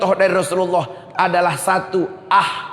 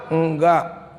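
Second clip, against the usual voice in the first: low, reluctant denial; small meek no to mother; sulky tearful child; 5 semitones lower than usual. Retold or imitated. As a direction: answer low, hiding tears. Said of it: "Pulang nangis, mata merah".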